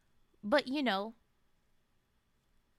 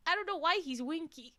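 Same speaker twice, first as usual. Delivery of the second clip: laughing; 4 semitones higher than usual. Real, not acted. Laughing about winky voice.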